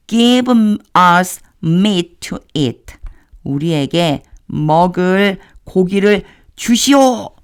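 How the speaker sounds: voiced complaining crowd; wailing crowd's demand. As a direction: cry out the demand like the complaining people. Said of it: "라고 계속해서 우리에게, 저에게 울부짖고 있습니다".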